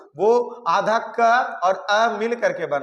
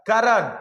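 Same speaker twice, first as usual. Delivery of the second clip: करण with क punched higher; stress on क; 4 semitones higher, 4 dB louder, slower than usual. Shown as a demonstration. Teacher demonstrating stress in करण, stressed क. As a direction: hit the first syllable क of करण hard. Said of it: "करण में क पर दिया जा रहा".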